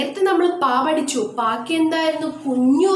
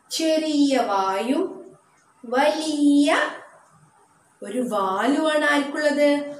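slow, drawn-out description; much slower than usual. Shown as a demonstration. Teacher describing letter shape.

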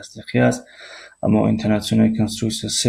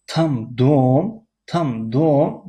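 higher rising tune on دوم; stress on дома; 3 semitones higher, slower than usual. Shown as a demonstration. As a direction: lift دوم as the question focus. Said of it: "یعنی اونجا خانه است". (آهنگ خیزان روی دوم)

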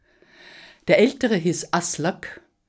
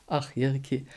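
put-on soft old tree; 5 dB quieter than usual. A narrator's reading. Ancient tree speaks softly.

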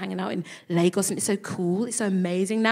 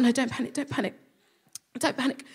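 soft repeated self-reassurance; self-calming; 3 semitones higher, 6 dB quieter, faster than usual. Retold or imitated. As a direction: talk yourself down quietly. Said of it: "And so I thought".

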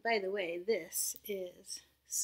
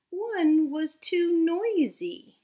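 much louder, higher, slow; noisy; 9 semitones higher, 11 dB louder, much slower than usual. Acted. Teacher acting out the noisy shell, loud. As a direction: make the word noisy loud.

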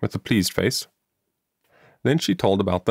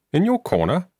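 higher, rising surprised question; in surprise; 9 semitones higher than usual. A narrator's reading. Mother echoing her daughter's words, surprised rising question. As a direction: echo it back, taken aback. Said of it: "repeated in surprise".

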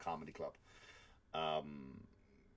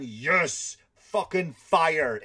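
gleeful cheer; 7 semitones higher, 11 dB louder, much slower than usual. Retold or imitated. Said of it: "And I'm".

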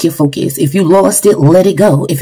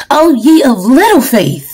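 emotional preaching cry; 4 semitones higher than usual. Real, not acted. Preacher caught up, voice crying.

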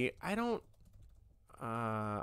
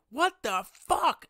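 mock shocked; 7 semitones higher, slower than usual. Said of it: "where she's like".

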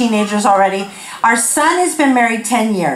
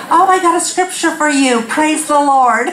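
higher, sing-out churchy cheer; mock cheerful friend; 4 semitones higher than usual. Friend offering a card verse, mock cheerful. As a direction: gush it, slowing on the praise. Mimics friend sending unwelcome scripture.

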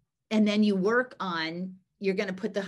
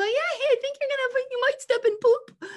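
very high, rushed and louder; high-pitched hurried mock heads-up; mock polite warning; 6 dB louder than usual. Shown as a demonstration. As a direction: parody an over-wordy warning in a squeaky-high voice. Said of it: "And I'm not gonna go".

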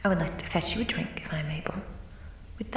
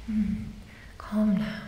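ordinary talk

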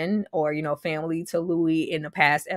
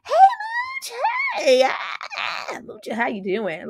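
much higher sing-song call across the room; much slower than usual. Retold or imitated. Greeting Mooch across the room, a high calling voice. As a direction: hail him from afar.

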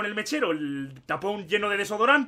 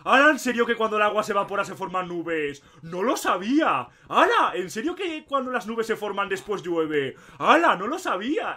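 mock amazement. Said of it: "empezamos a vacilarla, en plan".

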